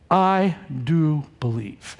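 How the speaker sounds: slow, low, deliberate declaration; low and measured, firm on "do"; emphatic. Acted. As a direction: weigh out each word of "I do believe". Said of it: "that's very emphatic in the original".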